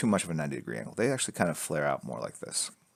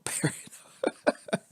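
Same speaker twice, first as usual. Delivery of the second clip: "Perino" drawn out slowly through a laugh; much slower than usual. Shown as a demonstration. Repeating a name from chat, laughing and drawn out. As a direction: stretch "Perino" while laughing.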